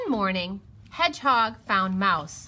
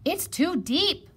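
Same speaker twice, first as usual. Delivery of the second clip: high, loud rabbit voice; raised, high-pitched objection; worried rabbit; 10 semitones higher, 5 dB louder than usual. A narrator's reading. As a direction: protest that it can't be done. Rabbit explains he cannot help.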